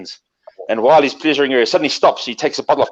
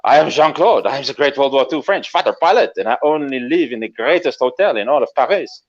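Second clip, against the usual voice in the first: French fighter pilot. Acted. Pilot boasting to an admirer, lightly French and self-important. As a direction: announce yourself with a mild French accent. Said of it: "And he goes".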